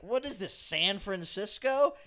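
wry, slowed-down jab; a snarky little dig at the customer; sarcastic aside. Retold or imitated. Barista muttering a slow sarcastic jab. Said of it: "And I'm like".

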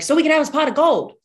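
put-on high, loud, quick kid voice; imitated excited kids. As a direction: blurt it out like an eager child. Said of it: "They're like".

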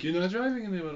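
imitated German accent. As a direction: imitate a German friend laying down the rule. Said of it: "doing a German accent".

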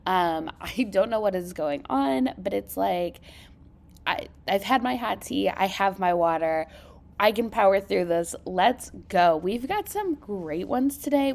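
creaky, croaky sinus voice; talking through vocal fry. Real, not acted. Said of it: "apologize for the vocal fry today".

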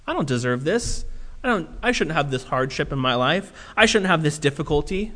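quiet, sorry-for-myself grumble; self-pitying whine. Retold or imitated. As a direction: mope it out like you're owed better. Voiced self-pitying complaint, quieter.

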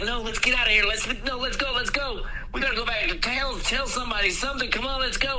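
high, urgent pleading to flee; panicked wife. Retold or imitated. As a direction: mimic a scared wife hurrying her husband. Wife urging escape from danger.

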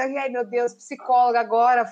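normal talking voice

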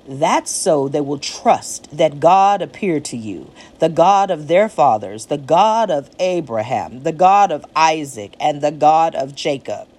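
solemn booming divine voice; God voice. Acted. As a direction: speak as God, grave and measured. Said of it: "this is what I sound like in my God voice".

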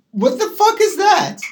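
high, loud, screeching hag shriek; witchy screech. Acted. Shrieking like a witch at the caller. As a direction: screech it out like a witch casting a hex. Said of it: "calling a hex on me".

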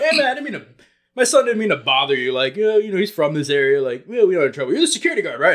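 smoothing things over; friendly dad. Retold or imitated. Stepdad talking to stranger, mild friendly imitation. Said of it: "He's like".

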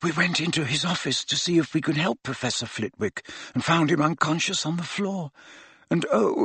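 high, soft, distressed wail; ashamed, muffled confession. A narrator's reading. Hermione confesses they let Snape go, high and ashamed. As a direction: draw out the regret in a high, small voice. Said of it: "so that her voice was muffled".

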